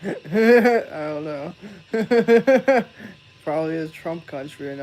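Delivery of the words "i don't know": drawn out through loud laughter; laughing at his own joke. Real, not acted. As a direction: stretch the words while cracking up. Laughs after grandpa joke.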